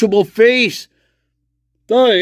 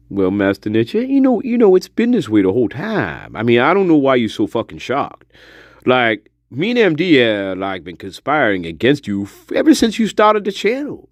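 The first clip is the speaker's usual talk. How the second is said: put-on old spirit voice; 5 semitones lower than usual. Spirit realm elder teasing the streamer.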